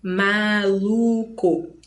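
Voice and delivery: MALUCO very slowly as ma, lu, co; split into syllables. Shown as a demonstration. Teacher giving three-syllable examples, maluco split very slowly. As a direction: stretch maluco into three beats, ma, lu, co. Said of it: "por isso a gente divide".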